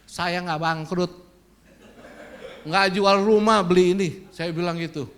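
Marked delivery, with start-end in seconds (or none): 0.1-4.1 arrogant boast. Retold or imitated. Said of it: "Sombong udah jadinya".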